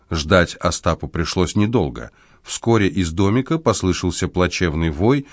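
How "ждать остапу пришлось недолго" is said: usual speaking voice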